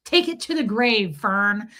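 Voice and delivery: loud mocking taunt; taunting yell. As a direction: shout it at her gleefully. Taunting Fern in retelling.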